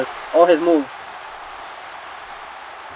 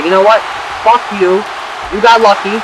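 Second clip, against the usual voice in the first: retold angry outburst; 5 semitones higher than usual. Cody yelling at Sandow after the match, hammed-up angry shout. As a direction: snap it at him like you've been robbed. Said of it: "just gets pissed".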